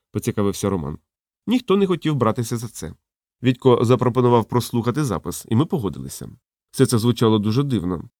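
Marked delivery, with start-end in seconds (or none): none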